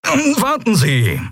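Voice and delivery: slow, calling after her. A narrator's reading. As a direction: call her back urgently. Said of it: "rief Delarco".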